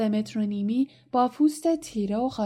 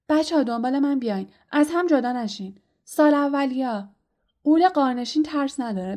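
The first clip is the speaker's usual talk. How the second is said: eager; 3 semitones higher, 4 dB louder than usual. Acted. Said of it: "پرسی مشتاقانه جلو آمد و گفت".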